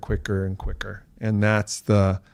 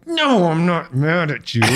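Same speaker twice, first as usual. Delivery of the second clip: mock angry denial, higher; 8 semitones higher than usual. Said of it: "I'm like".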